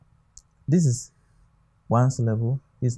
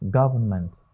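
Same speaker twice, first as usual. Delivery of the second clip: Government as GOV-ernment; Government with weak, falling final -ment; stress on first syllable; 3 semitones lower than usual. Shown as a demonstration. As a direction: hit the start of Government, let the rest fall. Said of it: "the stress is on the first word".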